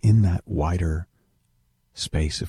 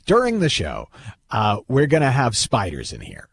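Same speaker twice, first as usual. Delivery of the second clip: stage manager in a mock Jersey accent, bored and a bit higher; 3 semitones higher than usual. Stage manager briefing phobic guests, mock bored Jersey accent. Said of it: "giving her a sort of a Jersey accent".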